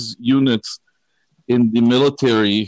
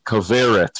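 the name with an American r, stress on the middle syllable; American pronunciation. Shown as a demonstration. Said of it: "for those of you who need to hear it in an American accent".

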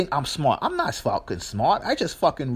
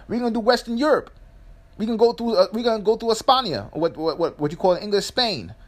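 cartel boss voice; 2 semitones higher than usual. Retold or imitated. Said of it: "somebody in Latin America who says".

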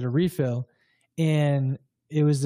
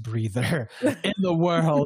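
laughing; slower than usual. Real, not acted. Laughs at own claim.

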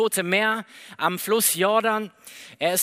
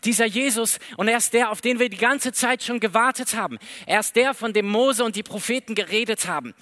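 excited. Acted. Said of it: "Philippus ist so begeistert".

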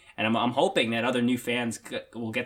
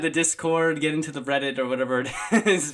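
laughing; 3 semitones higher, 4 dB louder than usual. Real, not acted. Laughing while plugging the community.

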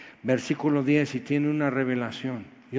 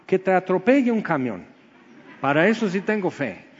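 mock-bitter jab, higher and louder, ending in a laugh; sarcastic retort; 5 semitones higher, 4 dB louder than usual. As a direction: throw back a sarcastic joke. Sarcastic reply to pious brother. (respuesta sarcástica con risa)

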